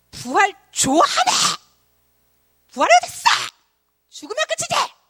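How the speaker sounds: high, loud, furious angry shouting.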